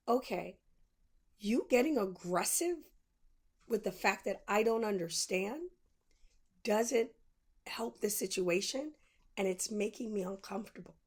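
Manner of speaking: steady, measured calm; calm and even. Shown as a demonstration. Showing how she calmly told the rude clerk, even and measured. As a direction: set a boundary without raising the voice. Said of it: "The exact way I'm saying it to you is exactly how I said".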